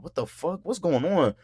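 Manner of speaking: retold alarmed questioning; startled demand. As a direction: act out bursting in confused. Retells cousin barging in.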